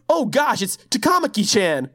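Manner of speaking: high-pitched mock gushing; mimicked game character. Host mocking the game's dub to a friend, high mimicry.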